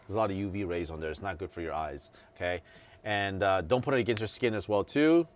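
muffled behind cloth mask; mask-covered mouth speech; through a face mask. Real, not acted. Seen 4: Black cloth mask covers nose and mouth throughout the labelled words.

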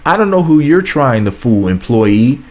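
mock-scolding a commenter, pitch up; talking back at the commenter with sass; sassy clapback. Real, not acted. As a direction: call her out with attitude.

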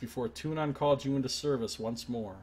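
measured storyteller read; dramatic narrator reading; game text narration. Acted. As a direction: read the outcome like a chronicle. Reads game narration aloud.

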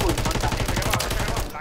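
slow, loud drawn-out surprise; startled drawn-out exclamation; surprised. Real, not acted. Sudden enemies spotted.

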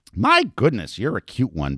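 mild acted call, high at first; a shout that eases off quickly; shouted greeting. A narrator's reading. Brothel madam calling to a newcomer below, mildly shouted. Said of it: "Betty Posey shouted at Peter".

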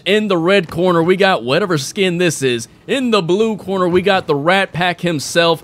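mock boxing ring announcer. Announcer to crowd at first Warzone boxing match, mock ring announcer. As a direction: present the fighters like a ring emcee.

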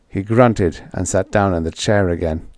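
plain reading voice

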